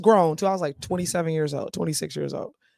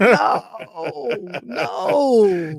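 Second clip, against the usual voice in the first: crying-out protest; 3 semitones higher, 4 dB louder than usual. Real, not acted.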